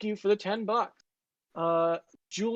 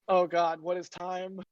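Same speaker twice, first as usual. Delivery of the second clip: mock exhausted despair. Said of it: "And two is like".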